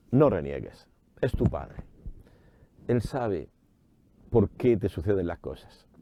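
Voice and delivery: low-pitched, understated motherly counsel; gentle admonition. Retold or imitated. Preacher voices Mother Church answering the bereaved, gently admonishing. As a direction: drop the pitch to counsel the complainer.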